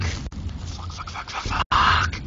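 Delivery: breathless whispered curses; frightened whispering as the monster closes in; whispered panic. Real, not acted. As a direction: whisper in terror. Cornered by Slender.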